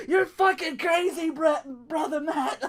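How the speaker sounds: high, slow, laughing through the words; laughing quote. Retold or imitated. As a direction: crack up while calling him crazy. Quoting wrestler, laughing.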